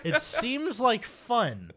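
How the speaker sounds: slow, laughing through words. Real, not acted. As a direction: laugh as you say it. Laughing repeat of joke.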